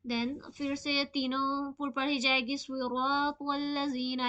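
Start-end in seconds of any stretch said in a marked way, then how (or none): 2.6-4.3 सिरातल लजीना slow with heavy स्वाद रा त्वा; full-mouthed. Shown as a demonstration. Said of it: "मुंह भर के पढ़ी जाएगी".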